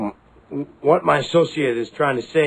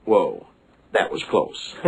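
relieved gasp; 10 semitones lower, slower than usual. Acted. Near miss after hitting brakes.

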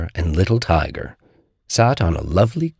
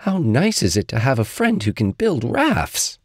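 admiring Little Tiger; 6 semitones higher than usual. Acted.

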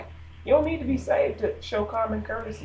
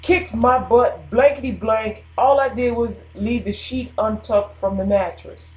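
mock complaint; 2 semitones higher, 4 dB louder, slower than usual. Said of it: "anybody say".

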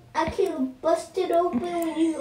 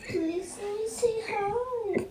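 softer, muffled asking; quiet plea; 6 dB quieter than usual. Real, not acted. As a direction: ask again, quieter now. Brother begging at locked door.

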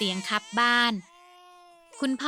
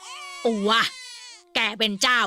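laughing defiance; 4 dB louder than usual. Acted.

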